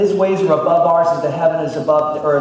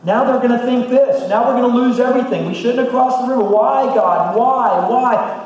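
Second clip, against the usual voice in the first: high, loud anguished cry of why; yelling at God; 8 semitones higher, 5 dB louder than usual. Acted. Elders wailing to God on their faces, high and loud. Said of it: "they're yelling out to God".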